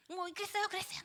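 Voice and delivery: high, nagging retort; arguing. Retold or imitated. Preacher imitating a believer arguing at work. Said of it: "막 이러면서 따지면서".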